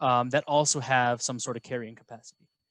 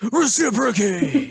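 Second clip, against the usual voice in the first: excited; 10 semitones higher, 7 dB louder, slower than usual. Acted. Excited math shout.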